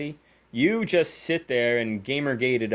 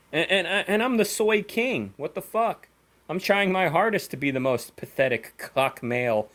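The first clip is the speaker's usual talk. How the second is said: higher, sarcastic self-mocking whine; mocking the insult in a raised, whiny voice; sarcastic mock lament; 5 semitones higher than usual. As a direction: play the pathetic soy king they say you are, pitched up. Sarcastically mocking what critics call him.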